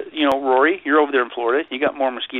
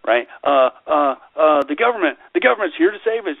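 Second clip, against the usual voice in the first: mocking voice; 3 semitones higher, 4 dB louder than usual. Mocking the government's crisis line.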